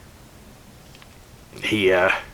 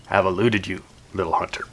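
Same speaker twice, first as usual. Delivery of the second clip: softer, gloating creature voice; soft taunting monster; 8 dB quieter, faster than usual. Acted. The Amarok quietly gloating over the hunter.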